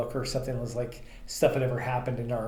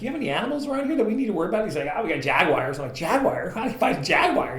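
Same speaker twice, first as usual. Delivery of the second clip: mock alarm; 6 semitones higher, 5 dB louder than usual. Alarmed question in dark vineyard.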